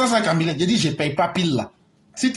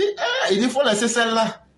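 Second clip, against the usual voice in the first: laughing; 5 semitones higher than usual. Retold or imitated. Laughing retelling.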